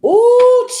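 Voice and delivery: high, loud delighted ooh. Real, not acted. Reader reacting to a card, with a high, loud, delighted ooh. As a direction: squeal out ooh like you spotted gossip.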